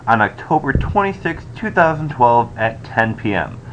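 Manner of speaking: recorded on a poor laptop mic; cheap usb mic. Real, not acted. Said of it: "I apologize for the, uh, microphone quality".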